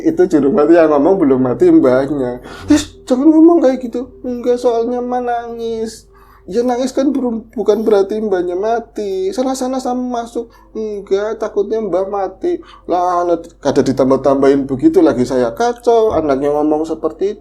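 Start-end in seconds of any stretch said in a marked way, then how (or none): 2.7-12.6 high, lightly voiced dialogue; mother and child. Dialog ibu dan anak. (percakapan ibu dan anak, suara tinggi)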